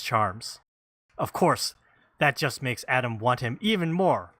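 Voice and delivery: lilting book-blurb read; reading blurb aloud. Real, not acted. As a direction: read out the back-cover copy with measured pauses. Reading the publisher's copy aloud.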